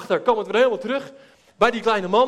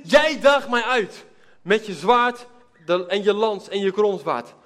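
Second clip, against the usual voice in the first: slow, louder solemn proclamation; David's defiant answer; 4 dB louder, slower than usual. Acted. David answering the giant Goliath, slow solemn defiance. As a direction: declare it slowly like a challenge.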